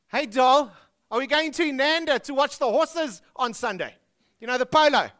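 mock posh Joburg lady; posh Sandton voice. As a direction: play a snooty Sandton socialite. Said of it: "In Sandton, it goes something like this".

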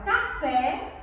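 café with the final é held open; som aberto. Shown as a demonstration. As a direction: show the open vowel at the end of café. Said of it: "Observe a diferença". (café com o é final aberto)

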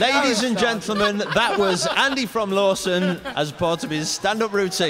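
mock compere. Mock announcing the joke.

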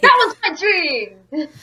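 slow, high Southern belle lament. Acted. Professor laments an old dream, hammed-up Southern belle. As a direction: draw it out as a dramatic Southern belle. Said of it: "Why is he now a Southern Belle?".

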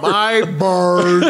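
lightly put-on Russian accent; a hint of a Russian villain. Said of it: "This is my Russian accent".

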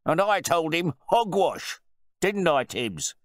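loud, high-pitched public ridicule; jeering, pompous bluster; mocking host. A narrator's reading. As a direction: make the butler look foolish before guests. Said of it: "the host began to mock his butler".

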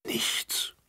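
breathy, sad whisper; Bärbel whispering sadly after waiting in silence. A narrator's reading. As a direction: barely breathe the word out, downcast. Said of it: "flüsterte Bärbel traurig".

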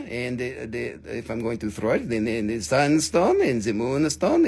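stumbling over the words; stuttering. Real, not acted. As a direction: trip over the start of the phrase. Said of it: "I'm stuttering".

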